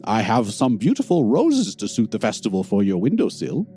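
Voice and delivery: shopkeeper voice. Acted. Shopkeeper offers flowers.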